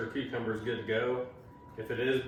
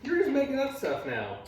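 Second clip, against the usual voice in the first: incredulous; 12 semitones higher than usual. Real, not acted. Mock disbelief at son.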